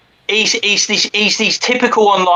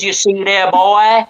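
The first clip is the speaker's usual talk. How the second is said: Ethan Ralph impression; 3 semitones higher than usual. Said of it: "doing a little bit of an Ethan Ralph there".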